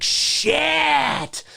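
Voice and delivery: high, long drawn-out curse; acted shock; stunned reaction. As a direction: stretch it out in awe.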